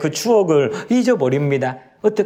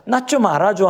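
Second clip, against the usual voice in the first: pleading repeat; 5 semitones higher than usual. Retold or imitated. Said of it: "하는 이 하나님의 마음이요".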